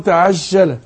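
تعجل said with the ج loosened toward ش; mimicking the sloppy sh-like تعجل; imitating wrong jeem. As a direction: copy the mistake: ج of تعجل with no closure. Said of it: "بيسيبها يقول".

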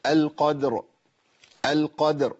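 "القدر" said carefully with an audible final ra; clear ra. Shown as a demonstration. Teacher demonstrating the ra's sound, "القدر" fully pronounced. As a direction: bring out the ra at the end of "القدر". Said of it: "صوت الراء".

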